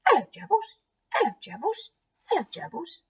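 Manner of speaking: put-on high, squeaky little child voice; two-year-old boy. Eddie greeting gerbils in their cage, toddler voice. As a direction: chirp it like a toddler greeting pets. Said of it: "and he's going".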